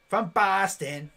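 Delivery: put-on drawn-out Boston accent; playful, slow Boston accent. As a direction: stretch it out like a Boston local. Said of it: "we have the Boston accent".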